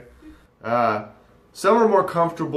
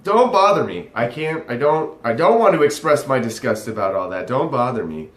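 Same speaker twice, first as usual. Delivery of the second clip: mock can't be bothered. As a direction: imitate someone waving off a nuisance. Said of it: "cannot be bothered to express their disgust".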